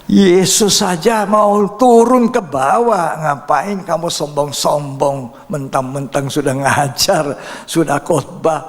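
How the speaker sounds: the Holy Spirit rebuking a proud preacher, slow and stern. Retold or imitated. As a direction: let the Spirit scold him slowly and loud. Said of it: "Roh Kudus bicara sama saya".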